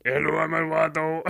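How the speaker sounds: lightly voiced Spanish accent; a hint of a Spanish accent. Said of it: "speaks in a Spanish accent".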